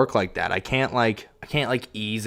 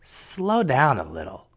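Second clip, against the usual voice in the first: wife's advice retold a bit slower; slowed quote; 3 semitones higher, slower than usual. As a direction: drag the words out, imitating her calm advice. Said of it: "she goes".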